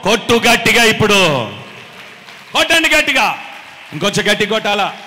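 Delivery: loud, driving command to clap; rousing call. Real, not acted. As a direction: whip up the crowd. Urging clapping.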